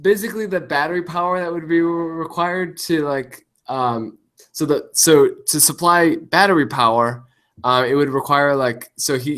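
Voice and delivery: glitchy robotic voice mutator; cyborg voice. Real, not acted. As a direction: voice garbled like a robot. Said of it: "sorry for turning into a cyborg".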